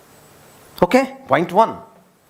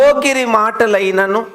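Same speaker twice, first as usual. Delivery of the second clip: బూతులైనను drawn out slowly, rising at the end; slow emphatic repeat; 2 semitones higher than usual. Shown as a demonstration. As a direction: spell out బూతులైనను for the reader, slow with a lift. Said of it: "మళ్ళీ చదువు". (నెమ్మదిగా నొక్కి చెప్పడం)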